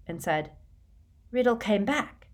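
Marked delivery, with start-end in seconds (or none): 1.3-2.3 higher, rising query; questioning echo. A narrator's reading. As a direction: repeat it as a probing question. Riddle probes Morfin's news.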